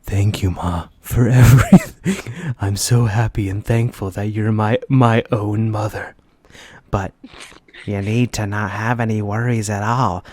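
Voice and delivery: mock tender. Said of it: "softly tells her".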